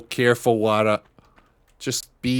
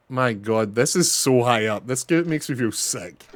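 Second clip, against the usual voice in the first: ordinary delivery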